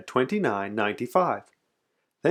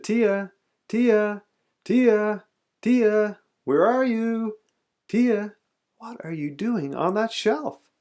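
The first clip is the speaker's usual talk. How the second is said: high, repeated searching call; raised-pitch hollering for someone; 10 semitones higher, slower than usual. A narrator's reading. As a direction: call for a missing child, then puzzled. Father searching, calling for daughter.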